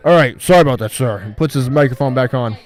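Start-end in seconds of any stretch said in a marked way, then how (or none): 0.1-1.2 a hint of a worker in trouble; mock strained voice. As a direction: drag it out like he's choking on something. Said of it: "he's like".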